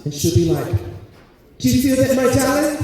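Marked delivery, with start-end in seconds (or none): 1.6-2.8 high, hushed-to-loud mystic voice; mystic aunt. Retold or imitated. Aunt asking her nephew if he feels the spirit, high and mystical. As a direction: breathe it like a seance host.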